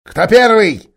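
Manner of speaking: high, loud ape voice; tempting the crowd, high; high sly ape. Acted. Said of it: "сказал он".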